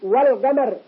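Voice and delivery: "والقمر" with a distinct l; clear lam. Shown as a demonstration. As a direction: let the l ring before q in "والقمر". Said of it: "إظهار". (إظهار اللام في "والقمر")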